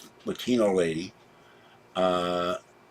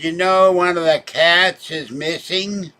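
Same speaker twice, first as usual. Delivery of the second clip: alarmed; 8 semitones higher, 6 dB louder, slower than usual. Retold or imitated. Neighbor woman alarmed about cat.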